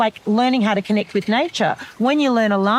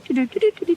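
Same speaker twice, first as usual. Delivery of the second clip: contact chirps; 4 semitones higher, much faster than usual. Retold or imitated. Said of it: "flocks of birds going".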